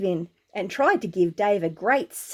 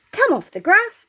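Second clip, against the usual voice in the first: higher, louder shout back; yelled back; 8 semitones higher, 5 dB louder than usual. Acted. Dave answering the giant's taunt, loud high yell. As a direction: fire the retort back at him. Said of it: "Dave yelled back".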